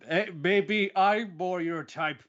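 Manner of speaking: high put-on voice, slowed way down; hammed-up seductive offer to the thugs; mock flirty come-on. Retelling Sakuta's flirt line.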